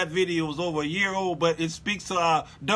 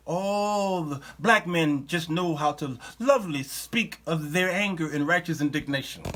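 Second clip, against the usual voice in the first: mock admiration; 4 semitones lower, 3 dB quieter than usual. Host mock-praising rappers' anger, sarcastically swooning.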